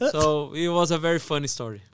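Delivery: light laugh in the voice. Real, not acted. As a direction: say it through a chuckle. Laughing after story.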